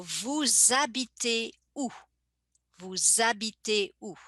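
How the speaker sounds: "vous habitez" said as "vou-zabitez", H silent; Z liaison. Shown as a demonstration. Teacher repeating "vous habitez où" for the class with the Z linking. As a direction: glide the S into a Z before "habitez". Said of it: "the S becomes like a Z sound".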